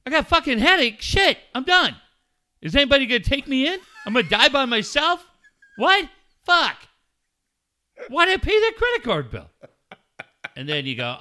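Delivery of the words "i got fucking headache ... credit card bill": much higher and louder hammed-up panic, tumbling out; mock freakout. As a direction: squeal like you're sure it's the end. Mock panic over a headache.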